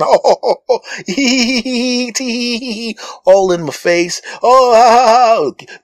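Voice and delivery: high tittering hee hee laughter; fake giggling staff. Staff tittering in his face, high fake laughter. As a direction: giggle falsely like a fawning clerk.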